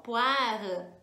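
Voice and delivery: slow, careful French "poire" with uvular r. Shown as a demonstration. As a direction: spell out "poire" slowly, French style. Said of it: "Pra falar pera em francês".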